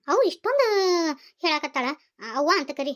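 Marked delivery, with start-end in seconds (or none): 1.4-1.9 tearful. Acted. Mother begging her son to call her mother, tearful. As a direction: voice catching into tears.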